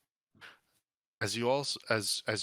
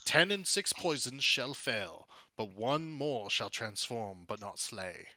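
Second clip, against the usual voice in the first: prophesying statue; slower than usual. Acted. Statue suddenly speaks a cryptic prophecy to listening wizards, intoned slowly. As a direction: intone a riddle slowly, letting the last phrase drop.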